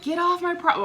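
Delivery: grandpa yelling. Retold or imitated. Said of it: "grandpa start yelling at grandma".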